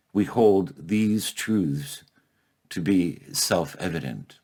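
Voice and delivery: very slow, each word given weight; slow, emphatic declaration. Acted. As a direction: draw out every word of the creed. Creed repeated slower for weight.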